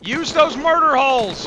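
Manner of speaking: loud, high battle yell; shouting orders. Real, not acted. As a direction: yell the order over gunfire. Yelling orders mid firefight.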